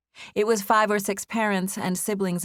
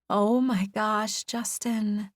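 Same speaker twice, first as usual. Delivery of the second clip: awed gasp; 4 semitones higher, much slower than usual. A narrator's reading. Opening the perfect gift.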